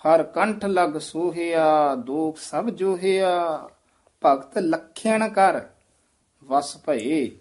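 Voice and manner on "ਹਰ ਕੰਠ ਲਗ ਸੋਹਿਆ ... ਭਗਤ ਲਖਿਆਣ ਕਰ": slow measured phrases, short stop after ਕਰ; deliberate reading, ਕਰ falling before a break; halt on ਕਰ. Shown as a demonstration. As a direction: pause on ਕਰ at the phrase end. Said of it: "ਕਰ ਤੇ ਠਮਕ ਲੱਗੇਗੀ".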